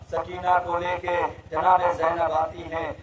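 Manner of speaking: ordinary talk, nothing marked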